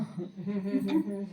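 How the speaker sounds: low, soft chuckle; a quiet little laugh. Real, not acted. Speaker recalls "don't go" after "get out", low amused chuckle. Laughs at the flip-flopping orders.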